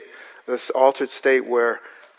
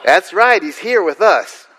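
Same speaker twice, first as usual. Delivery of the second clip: rural host on phone; 6 semitones higher, 6 dB louder than usual. Retold or imitated.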